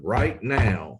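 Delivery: car salesman. Acted. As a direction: open the pitch like a TV car ad. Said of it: "I sound like a car salesman".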